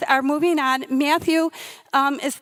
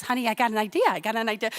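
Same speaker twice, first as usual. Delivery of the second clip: defusing husband; much faster than usual. Retold or imitated. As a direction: gently talk your wife down. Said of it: "trying to, you know, diffuse me".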